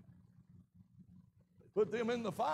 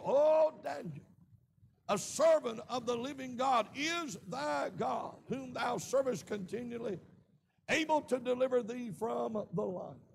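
king calling anxiously into the lions' den; lamentable cry. Retold or imitated. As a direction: cry out in mild anguish, drawing it out. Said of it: "he cried with a lamentable voice".

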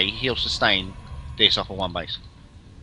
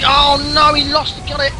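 much higher, louder excited outburst; excited shout; 13 semitones higher, 5 dB louder than usual. Real, not acted. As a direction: yell it as the fight swings. Fight swings back and forth.

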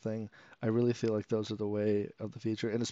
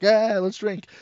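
rowdy bar cheer; 10 semitones higher, 8 dB louder, much slower than usual. Retold or imitated. Old guy cheering in bar.

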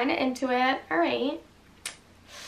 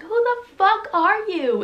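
retold yell, higher and louder; mock scream; 8 semitones higher, 5 dB louder than usual. Girl screams at the stranger, retold. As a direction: throw the line in his face. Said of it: "she's screaming, like".

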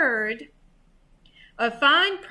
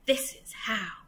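softer, secretive thieves' whisper; 2 semitones lower, 6 dB quieter than usual. A narrator's reading. Thieves share their plan in the van, hushed. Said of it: "she heard them whisper".

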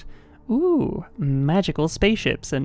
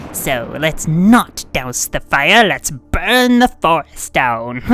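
louder, slow villain farewell; evil villain voice; 2 semitones lower, 4 dB louder than usual. Pretend. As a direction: gloat like a cartoon villain. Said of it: "the Foxy evil voice".

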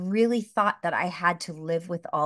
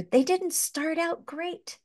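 close to tears; 8 semitones higher than usual. Real, not acted. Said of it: "I'm gonna cry".

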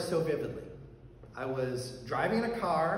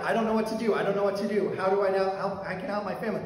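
louder and higher, helpless panic; panicked; 4 semitones higher, 5 dB louder, faster than usual. Retold or imitated. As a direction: cry out not knowing what to do. Panic in the retold nightmare.

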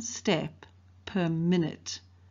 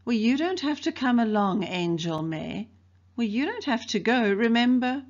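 mock sweet; 5 semitones higher, 3 dB louder than usual. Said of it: "he said sweetly".

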